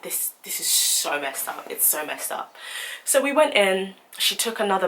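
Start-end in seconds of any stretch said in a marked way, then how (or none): 0.0-2.5 muttered disbelief. Retold or imitated. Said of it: "I was like".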